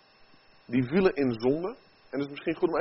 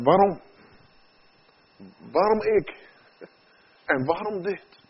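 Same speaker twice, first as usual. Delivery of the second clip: higher-pitched cry of why, easing off in volume; mock outcry; 4 semitones higher, 3 dB louder than usual. Sufferer asking God why, mock outcry. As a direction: cry it out in protest, without a full shout. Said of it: "Dan schreeuwen we het eigenlijk uit".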